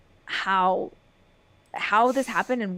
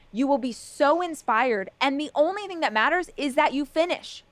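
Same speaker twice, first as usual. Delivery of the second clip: fired up pep talk; 4 semitones higher than usual. Real, not acted. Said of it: "Stop yelling".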